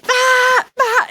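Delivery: high, loud, cool climbing yell; Chris Sharma scream. Retold or imitated. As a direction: imitate the cool pro climber's power yell. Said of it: "the cool Chris Sharma, Adamant".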